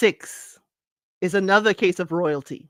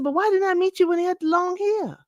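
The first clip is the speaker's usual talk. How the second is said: mock indignant question; 11 semitones higher than usual. Retelling what she told husband.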